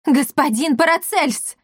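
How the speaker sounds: high surprised call; cry out. Acted. Barianna spotting the apothecary, crying out. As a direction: call out on recognizing him. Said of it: "вскрикнула Барианна".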